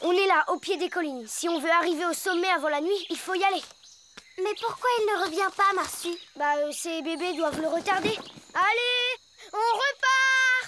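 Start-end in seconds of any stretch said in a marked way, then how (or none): 8.5-10.7 shouting, higher pitch and much slower. At the foot of the hills, call the expedition to move on, shouting. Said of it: "Pourquoi tu cries comme ça?".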